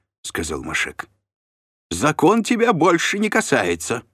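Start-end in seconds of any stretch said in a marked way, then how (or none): 1.9-4.0 haughty shrill reply. A narrator's reading. Shlom answering Mashek.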